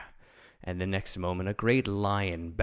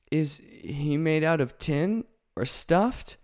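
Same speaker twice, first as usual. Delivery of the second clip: slow, higher, louder curious question; the lion asking about Toto; lion's voice; 7 semitones higher, 5 dB louder than usual. Acted. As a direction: ask like a puzzled big cat. Lion asks.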